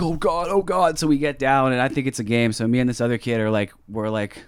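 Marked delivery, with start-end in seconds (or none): 0.0-1.0 high-pitched imitation of a panicked kid; whimpering panic, put on for the story; mock freaking out. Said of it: "And he's freaking out".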